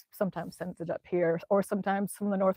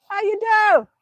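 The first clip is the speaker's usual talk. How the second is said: squeaky high-pitched greeting, louder; playful high-voiced question; high silly voice; 12 semitones higher, 8 dB louder than usual. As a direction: ask it in a high cartoon voice. Botched greeting in same put-on voice.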